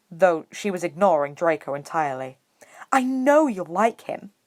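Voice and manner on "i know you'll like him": high, slow and keen; eager. A narrator's reading. Hermione urging Harry to meet Hagrid, eager. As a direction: gush a little about a friend.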